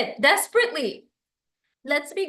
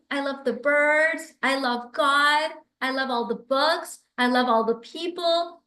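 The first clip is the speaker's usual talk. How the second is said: embodied gratitude. Shown as a demonstration. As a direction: feel every "I love" as you say it. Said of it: "If Valentina said the same thing to me".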